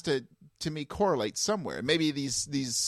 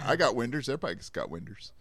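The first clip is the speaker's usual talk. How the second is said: put-on Texas accent; faster than usual. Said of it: "You do that accent so well".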